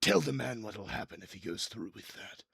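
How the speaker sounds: big bruiser setting up a threat; armored giant Glurg. Acted. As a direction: call out sharply to your henchman. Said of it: "and you see he goes".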